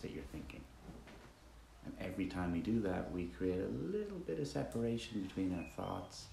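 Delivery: relaxed, conversational meditation leading with roomy silences; guided meditation. Acted. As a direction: guide listeners gently with long pauses between instructions.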